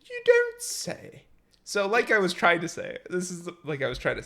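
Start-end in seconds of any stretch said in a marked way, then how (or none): 0.0-1.2 bear voice. Pretend. Repeats the bear catchphrase.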